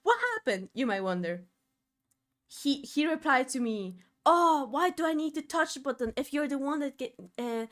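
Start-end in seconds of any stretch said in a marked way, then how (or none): 4.2-7.7 put-on retelling a grumpy old man's complaint; a touch of annoyed old man; lightly voiced cranky grandpa; mild angry grandpa. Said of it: "all angry at me".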